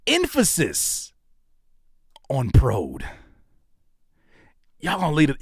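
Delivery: dramatic whispered mock of the comment; whispered mock quote. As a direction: drag it out, then whisper the end. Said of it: "followed it up by saying".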